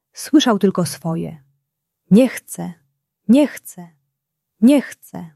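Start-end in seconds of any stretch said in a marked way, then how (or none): 2.1-5.3 rising, higher repeated refusal; angry boy repeating he doesn't want to; tantrum. A narrator's reading. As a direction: keep pushing the no higher each time.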